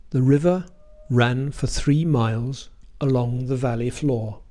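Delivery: "river ran for three miles" with strong beats on the content words; phrase stress démontré. Shown as a demonstration. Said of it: "Check out the following sentence".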